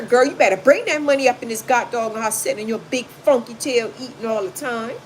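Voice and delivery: a hint of a bossy boyfriend scolding; lightly voiced pushy man demanding money; mock scolding man. Imitating OJ scolding his girlfriend for money, mildly. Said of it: "O J telling her".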